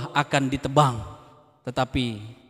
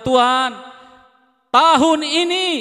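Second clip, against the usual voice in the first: a touch of a pleading servant; 13 semitones higher, 5 dB louder, slower than usual. Acted. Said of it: "berkata kepada tuannya".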